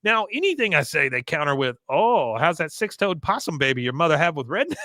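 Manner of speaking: high, loud, fast indignant complaint; ranting son. Retold or imitated. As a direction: vent the humiliation to his wife. Son ranting about shame at office.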